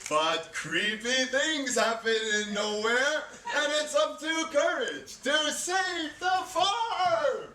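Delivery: big, slow, high sales pitch; dramatic pitch voice. Pretend. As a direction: sell it like a trailer voice. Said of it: "I'm going to reenact my successful pitch".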